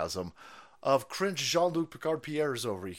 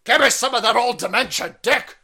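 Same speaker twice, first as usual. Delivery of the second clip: louder, hammed-up swooning voice; mock swooning woman; 6 semitones higher, 10 dB louder than usual. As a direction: gush like a lovestruck fan. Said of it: "She's like".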